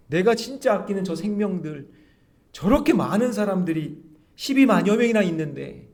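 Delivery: God reproaching. Acted. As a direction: chide like God pointing out the crowd. God voiced reproaching Jonah. (높고 크게 꾸짖는 하나님의 목소리)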